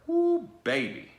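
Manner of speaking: loud woo. Real, not acted. Wincing at a cut heel, a drawn-out woo baby. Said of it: "reacting to the cut tendon".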